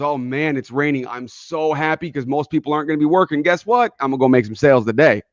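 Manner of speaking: a touch brighter, eager about the rain; upbeat salesperson. Retold or imitated. Other salesperson on the rainy morning, mildly excited. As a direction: sell it like good news. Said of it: "The other one wakes up and goes".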